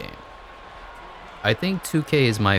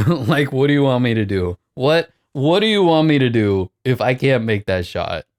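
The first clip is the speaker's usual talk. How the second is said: exasperated laugh-rant; 4 dB louder than usual. Real, not acted. Exasperated at missed shot.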